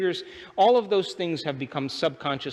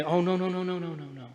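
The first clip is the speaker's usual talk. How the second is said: mock dismay; 2 semitones higher than usual. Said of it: "you say".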